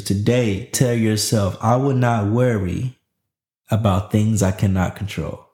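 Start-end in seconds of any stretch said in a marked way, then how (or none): 1.6-5.4 affirmation. Shown as a demonstration. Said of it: "It's time for your daily affirmations".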